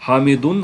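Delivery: حامدن ending in dammah, hamidun; with pesh. Shown as a demonstration. Teacher shows the pesh form, hamidun. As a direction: end حامدن on -un. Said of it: "پیش کے ساتھ".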